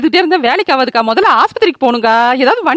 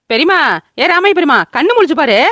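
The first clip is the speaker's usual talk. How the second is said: raised, anxious calls to rouse her; urgent calling; 3 semitones higher than usual. Acted. Neighbour rousing the unconscious old woman, anxious calling. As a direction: call out to wake the injured woman.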